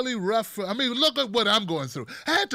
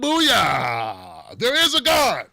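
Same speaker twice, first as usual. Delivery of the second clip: gleeful shout; 7 dB louder, much slower than usual. Pretend. Comedian mock-celebrating Trump's illness, a loud gleeful cry. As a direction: shout it like your prayers were answered.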